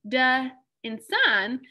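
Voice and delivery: "de" and "sign" said slowly as two separate pieces; split into parts. Shown as a demonstration. Teacher splitting the word for students, slow and deliberate. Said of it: "if you break apart the two words".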